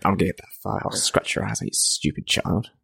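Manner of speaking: hissed villain threat, unvoiced; wicked stepmother. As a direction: whisper it like a sneering villain. Voicing Shere Khan villain threat.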